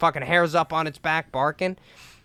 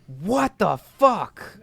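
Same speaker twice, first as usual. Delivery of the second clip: dad's startled what the fuck; 4 semitones higher, much slower than usual. Retold or imitated. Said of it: "I just hear my dad go".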